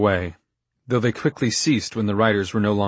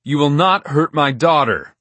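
fierce, louder father's warning; dangerous; 5 semitones higher, 7 dB louder than usual. Acted. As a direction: threaten him in a hard voice. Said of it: "His voice was so dangerous".

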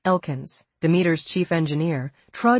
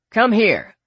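eager call; 6 semitones higher, 7 dB louder than usual. A narrator's reading. Elkins beckoning eagerly.

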